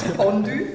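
Fondue with a long O and a short Ü; Swiss pronunciation. Shown as a demonstration. Sommelière showing her Swiss friend's Fondue, long O, short Ü. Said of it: "langes O, kurzes Ü".

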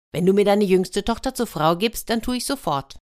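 bargaining hedgehog. Acted. Plays hedgehog naming his price.

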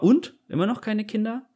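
prying question. Retold or imitated. Imitating a birthday guest who always asks about children, high prying tone. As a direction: mimic a nosy acquaintance teasing. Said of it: "dann bekomme ich immer".

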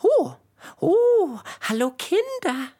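high, loud startled oh; silly clown. Acted. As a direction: jump at being caught. Startled professor spots the children. (überrascht aufschreckend)

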